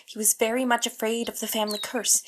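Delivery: breathless whisper. Acted. Sister confiding a dark secret in a whisper. Confiding about Sir Charles's fear.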